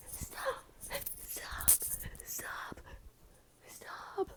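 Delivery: soft embarrassed whisper; whispered stop. Real, not acted. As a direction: hush it out, embarrassed. Embarrassed at own look.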